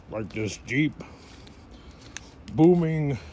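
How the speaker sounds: lightly voiced booming orator; a hint of a booming Lincoln, drawn out; slow down into a mild statesman voice; Abraham Lincoln voice. Shown as a demonstration. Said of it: "like that".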